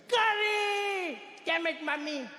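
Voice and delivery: high crying shriek; screaming curry. Retold or imitated. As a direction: wail it in comic despair. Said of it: "He screams like".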